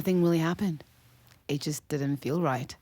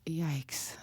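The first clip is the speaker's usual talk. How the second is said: whispered; 7 dB quieter than usual. Acted. Hushed sympathy at bad news.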